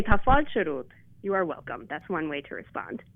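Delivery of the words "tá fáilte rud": tá fáilte rud with a fall on fáilte; Irish pronunciation. Shown as a demonstration. Teacher showing the host an Irish reply. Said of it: "you could say".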